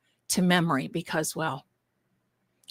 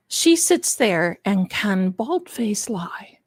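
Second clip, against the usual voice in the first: scornful whisper; slower than usual. Real, not acted. Mocking a witness's testimony.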